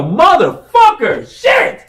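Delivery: high, drawn-out frustrated curse; loud cursing yell. Retold or imitated. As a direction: curse loud enough to carry through a studio booth. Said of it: "That's how loud I was".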